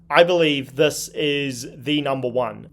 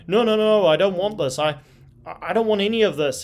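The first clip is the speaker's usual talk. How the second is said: higher-pitched, mock-panicked refusal; mock scared kid; 6 semitones higher than usual. Fighter refusing to face his challenger, mock frightened. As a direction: imitate a kid backing away from bullies. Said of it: "equivalent of a kid hiding in the corner".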